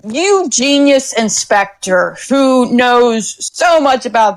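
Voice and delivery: slow, doubtful, needling inspector; skeptical inspector. Acted. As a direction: draw each question out sceptically. GM voicing Kara's challenge.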